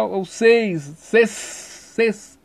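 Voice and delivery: "ses" repeated alone as the strong syllable; stressed syllable. Shown as a demonstration. Teacher showing the tonic syllable of francês, stressed syllable isolated. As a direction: isolate "ses" with a long hissed s. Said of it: "a sílaba tônica".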